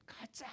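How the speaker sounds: "가장" squeezed out in a high, whispery stretch; "가장" drawn out softly for emphasis; emphatic hush. Real, not acted. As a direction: lean hard on "가장" with a breathy whisper. Emphasising most beloved congregation.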